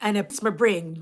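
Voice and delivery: lightly voiced grandmother in Patois; grandmother's saying. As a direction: quote a grandmother's saying, unhurried. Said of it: "their grandmother would say".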